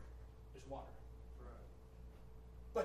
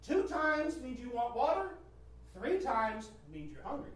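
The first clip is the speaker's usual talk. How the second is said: slightly higher, measured talk to an infant; parent coaxing baby; 4 semitones higher than usual. Pretend. Parent explaining a bell to baby Junior, mock coaxing. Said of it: "You can say".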